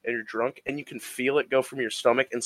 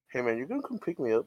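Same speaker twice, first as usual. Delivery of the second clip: mock casual phone call; 7 dB quieter, faster than usual. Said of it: "I'm like".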